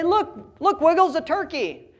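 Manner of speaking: put-on high, eager "look, look" to a small child; excited pointing-out. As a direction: call the child's attention with delight. Pointing out turkey to toddler.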